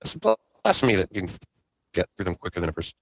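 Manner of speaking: choppy, breaking-up internet call; buzzy glitchy call audio. Real, not acted. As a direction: voice dropping out over a bad connection. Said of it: "you're breaking up".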